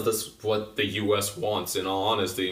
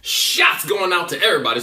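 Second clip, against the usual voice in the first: mock Trump boasting; 6 semitones higher, 4 dB louder than usual. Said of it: "Trump don't hold back".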